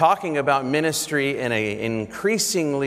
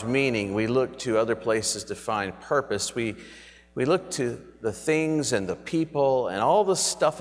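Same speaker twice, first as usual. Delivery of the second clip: reverent, earnest prayer voice. Acted. Pastoral prayer.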